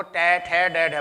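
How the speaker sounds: टे, ठे, डे, ढे with the tongue tip touching the roof; articulated with tongue tip up. Shown as a demonstration. Teacher to students, tongue tip on the roof for टे ठे डे ढे. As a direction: tap the roof of the mouth on each. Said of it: "बोल के देखो".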